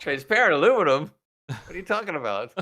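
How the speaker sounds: puzzled question, the word Transparent leaned on; bewildered scientist questioning Scotty; baffled scientist. Retold or imitated. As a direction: echo it back in confused disbelief. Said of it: "And the guy's going".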